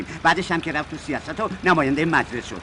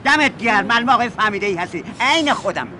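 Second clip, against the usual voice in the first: loud approval; 3 semitones higher, 6 dB louder than usual. Acted. Driver pleased, agrees loudly.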